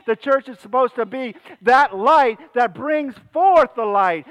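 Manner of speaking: rising, emphatic pulpit delivery; impassioned preaching. Real, not acted. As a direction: preach it out to the whole congregation. Preaches with force.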